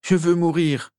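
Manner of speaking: high, anguished acted sob; sobbing. A narrator's reading. Tormented master begging to die, high acted sobbing. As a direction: wail it as if sobbing. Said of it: "sanglota Régulus".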